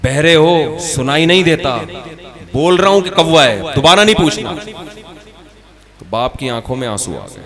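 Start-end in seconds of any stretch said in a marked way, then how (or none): 0.0-4.5 louder, impatient retold yell at his old father; irritated son raising his voice at his half-blind father. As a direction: snap the words at him, fed up. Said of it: "तीसरी दफा में चीख के बोलता है".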